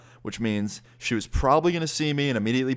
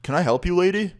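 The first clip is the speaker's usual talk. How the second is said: mock polite; 9 semitones higher, 5 dB louder than usual. Friend mocks stranger in park.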